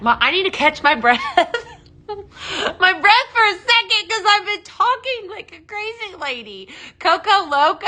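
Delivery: laughing through a retry of a slip; high, giggly recovery from your own blunder. Real, not acted.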